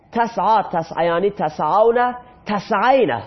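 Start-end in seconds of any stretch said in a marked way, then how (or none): none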